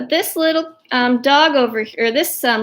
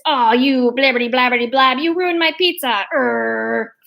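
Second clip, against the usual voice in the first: mock fuming, sputtering into a growl; lightly acted cartoon grumbling rant; Mario. Mario scolding Yoshi over ruined pizza, mock fuming. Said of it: "storms off fuming".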